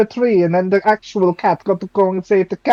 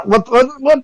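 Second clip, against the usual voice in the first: nervous flirting; 7 semitones higher, 3 dB louder than usual. Acted. Player flirts nervously with barmaid.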